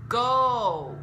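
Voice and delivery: a vocal coach modelling a word; English O in own. Shown as a demonstration. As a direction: own very slow and loud with a long rounded O gliding to U. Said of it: "例えばこのオーが入っている単語".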